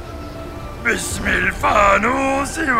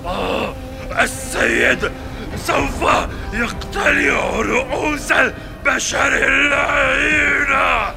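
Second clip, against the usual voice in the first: furious roaring giant; seething shrieking spirit. Acted. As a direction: roar the threat in pain. Blinded giant roars in pain. (عفريت غاضب يصرخ متألما)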